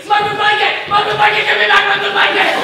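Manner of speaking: high, screaming tantrum; frantic, very loud wail; panicked. Acted. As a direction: shriek for your comfort blanket back. Panics when his blanket is taken.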